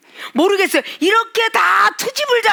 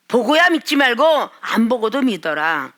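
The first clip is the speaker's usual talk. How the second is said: usual speaking voice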